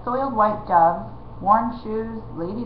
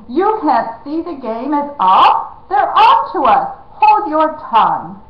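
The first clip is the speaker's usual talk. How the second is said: high, loud urgent warning; urgent hushing; 6 semitones higher, 7 dB louder than usual. A narrator's reading. Jemmy urges the prince to stop talking, urgent and loud. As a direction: hiss him into line, urgent.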